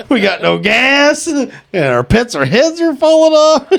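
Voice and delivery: high, slow, laughing mock wail; laughing mock lament. Friend hams up meme lament while laughing.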